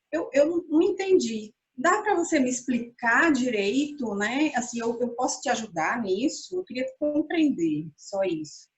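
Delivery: fala mansa e cuidadosa, sem acusar; tom calmo e colaborativo. Shown as a demonstration. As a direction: convide a conversar com calma. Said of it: "Olha como é diferente dizer". (um pedido calmo e sincero ao parceiro)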